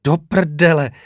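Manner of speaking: a restrained cry of dismay in narration. A narrator's reading. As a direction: curse it out, but don't fully shout. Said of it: "vykřikla Kylie".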